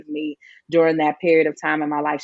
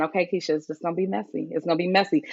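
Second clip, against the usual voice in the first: self-reassuring; faster than usual. Retold or imitated. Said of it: "just saying".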